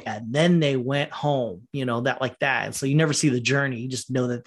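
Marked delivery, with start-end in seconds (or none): 0.0-1.7 mock narrator. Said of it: "a narrator would say".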